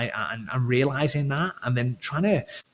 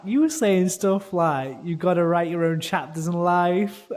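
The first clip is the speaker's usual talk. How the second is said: high, mocking sentimental speech voice; hammed-up quote of his own cringe speech; mock cheesy speech; 5 semitones higher, 4 dB louder than usual. Wife mocking his wedding speech in a high voice. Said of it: "she was like".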